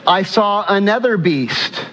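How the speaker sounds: high, ringing preacher's reading; scripture read-out. Acted. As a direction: read the verse out high, in deliberate phrases.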